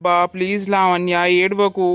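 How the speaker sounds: gentle, apologetic plea; calm her down tenderly; soothing. Acted. Husband comforting his crying pregnant wife, gently.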